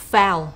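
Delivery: slow, loud model of "foul" as one syllable; careful pronunciation demo. Shown as a demonstration. Teacher showing an easily mispronounced word, careful "foul". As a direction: pronounce "foul" slowly and distinctly for learners. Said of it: "pay attention to the pronunciation of this word".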